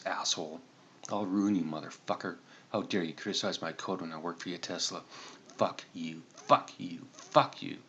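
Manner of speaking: a furious hacker yelling curses at the screen. Acted. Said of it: "acted to be a little more aggressive".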